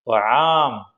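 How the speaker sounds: brief falling pretend cry; mock wailing. Teacher retelling what the bee heard, mock wailing. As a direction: lightly imitate a chick crying out for food. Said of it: "എന്തും പറഞ്ഞാ നിലവിളിക്കണേ".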